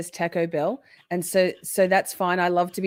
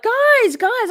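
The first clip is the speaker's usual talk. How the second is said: mock plea; 7 dB louder than usual. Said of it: "so that was like".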